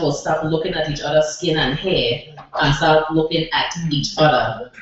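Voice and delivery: put-on a light Saint Thomas island accent carried through the poem; Virgin Islands dialect. Poet performs her poem for the open mic crowd in a light Virgin Islands accent. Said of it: "the way we talk back home".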